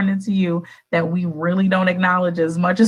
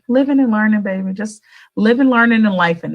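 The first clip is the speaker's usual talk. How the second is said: catchphrase; 2 semitones higher, 5 dB louder than usual. Retold or imitated. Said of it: "I'm always saying".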